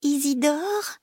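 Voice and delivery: drawn-out rising question; worried call. Acted. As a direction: call out anxiously for a missing brother. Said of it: "Elle appelle d'une voix inquiète".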